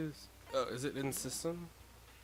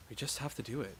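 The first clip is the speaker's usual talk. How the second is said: plain; 6 dB quieter than usual. Acted. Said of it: "kept repeating that sentiment".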